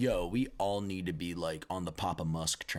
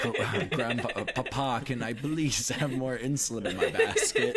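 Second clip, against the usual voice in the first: put-on high child voice; 6 semitones higher, 6 dB louder than usual. Kid voice begging Grandpa.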